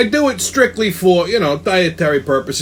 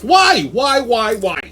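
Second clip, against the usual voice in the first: exasperated why; 3 semitones higher, much slower than usual. Acted. Exasperated at vegans.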